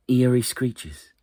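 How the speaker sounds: slowed, loud and high for the screeches; eerie screeches. A narrator's reading. Storyteller voicing the eerie screeches loud and slow. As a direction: paint the eerie owl screeches with the voice.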